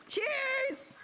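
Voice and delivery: high, drawn-out squealed cheers; high-pitched celebratory cry; cheering toast. Real, not acted. Toasting before the tequila shot.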